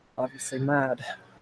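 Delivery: very quiet, low mutter under the breath. Voicing a woman in a role-play scene as she remarks: muttered under breath. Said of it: "talk under her breath".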